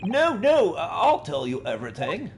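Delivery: terrified of being thrown overboard; panicked plea. Acted. Player voices Ryunosuke begging the Russian, panicked.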